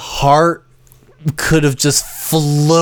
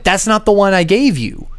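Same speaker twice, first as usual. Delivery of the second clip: indignant correction; 5 semitones higher than usual. Retold or imitated. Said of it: "I'm like".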